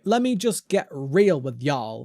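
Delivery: slow mock American drawl; American accent. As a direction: put on an American twang. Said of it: "That's what the Americans say".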